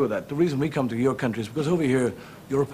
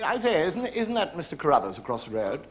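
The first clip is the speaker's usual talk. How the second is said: gossiping woman; 4 semitones higher than usual. Retold or imitated. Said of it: "two women talking to one another".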